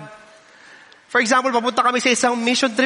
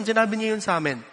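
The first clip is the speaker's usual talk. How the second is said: ordinary talk, nothing marked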